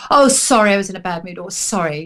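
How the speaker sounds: offhand, throwaway apology; flippant, glib apology. Shown as a demonstration. Not just saying sorry for a bad mood, flippant and glib. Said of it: "it's too flippant and glib".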